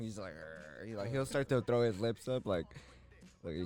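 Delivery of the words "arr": low, soft mock dog growl; imitated growl. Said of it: "do that growling voice at him".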